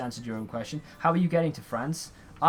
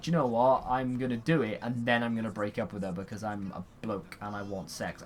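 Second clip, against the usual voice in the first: typical bloke; 4 semitones lower than usual. Retold or imitated. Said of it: "most boys would be like".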